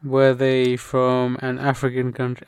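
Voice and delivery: lightly played guessing genie; deliberate quiz question; Akinator. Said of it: "I'm doing the Akhenaten".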